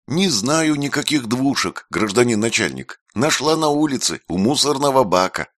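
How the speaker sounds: put-on high nasal street-kid voice; nasal Makar impression. A narrator's reading. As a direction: whine it nasally like a petty crook. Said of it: "гнусаво сказала Рина, подражая Макару".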